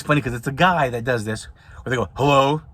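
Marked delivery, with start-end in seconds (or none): 2.1-2.6 mock gruff phone greeting; deep angry hello. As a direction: answer like a suspicious grumpy guy. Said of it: "this deep, angry voice".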